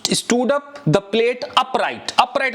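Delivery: slow, careful English model sentence. Shown as a demonstration. Teacher modeling an English phrase slowly for students. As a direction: spell it out slowly for learners. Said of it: "हम stood up ही कहेंगे".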